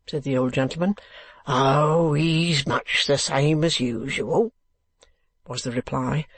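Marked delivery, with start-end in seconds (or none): 1.4-4.5 slow, gruff working man. Acted. Man below wall humouring old gentleman, gruff. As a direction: drag the reply out gruffly. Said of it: "replied a gruff voice".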